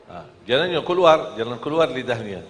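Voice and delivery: ordinary talk, nothing marked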